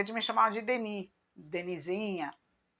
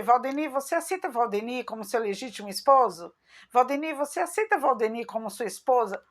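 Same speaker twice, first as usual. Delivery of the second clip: mock priest; 3 semitones higher than usual. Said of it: "no altar vai ser".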